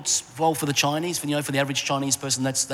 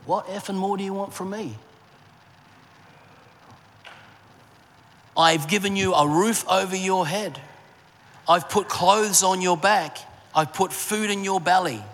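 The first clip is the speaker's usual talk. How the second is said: voicing the furious stepfather, higher and pushed; mock raging stepdad; 6 semitones higher than usual. Stepdad yelling at his stepson in the backyard, angry and higher. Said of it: "He was raged at me".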